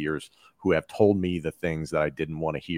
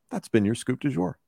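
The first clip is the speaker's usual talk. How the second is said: higher-pitched broadcast sign-off; show sign-off; 7 semitones higher than usual. Pretend. Guest signs off the host's show for her, broadcast sign-off. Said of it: "That is a great way to end it".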